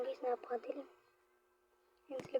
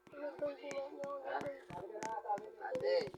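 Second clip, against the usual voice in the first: whispering; 4 semitones lower, 9 dB quieter, much slower than usual. Real, not acted. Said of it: "hiding from chaser".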